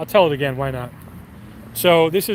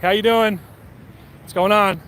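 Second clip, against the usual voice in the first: mock friendly; 4 semitones higher than usual. Waving at the police helicopter.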